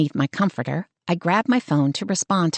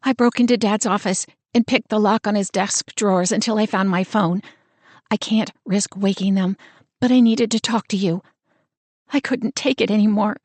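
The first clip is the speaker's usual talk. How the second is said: steadier sister; 3 semitones higher than usual. Acted. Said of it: "She continues much clearer".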